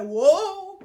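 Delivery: high, loud hammed-up swoon; mock keeling over with wailing whoas, laughing; comic death-scene cry through laughter; dramatic collapse. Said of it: "the way she tells the story is that I was like".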